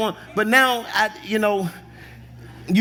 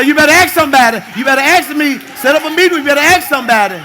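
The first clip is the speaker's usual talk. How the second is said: louder, higher mock warning; married folks' shout; 4 semitones higher, 4 dB louder than usual. Married folks shouting a warning at singles.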